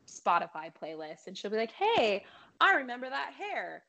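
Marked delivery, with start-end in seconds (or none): 1.7-3.8 higher, pleased voice of recognition; imagined recognition. Pretend. Singer imagining the star hearing her song, delighted recognition. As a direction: lift the pitch as if spotting someone you know.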